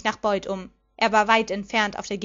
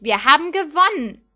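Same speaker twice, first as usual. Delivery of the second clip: loud, raised victory yell; jubilant cheer; 5 semitones higher, 7 dB louder than usual. A narrator's reading. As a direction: celebrate it at full voice. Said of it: "jubelte ich".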